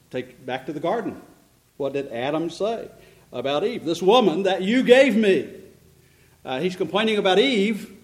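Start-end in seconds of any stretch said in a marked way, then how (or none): 3.8-5.5 louder, pointed blame; accusing. Acted. Adam complaining to God about Eve, accusing. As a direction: throw the blame back, pressing on the words.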